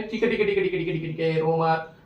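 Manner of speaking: soft, low, repetitive hushing; mock soothing. Teacher telling student not to cry, soft mock soothing. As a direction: pretend to calm a crybaby, quietly.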